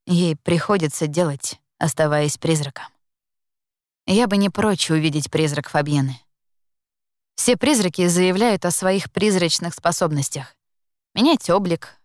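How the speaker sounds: ordinary delivery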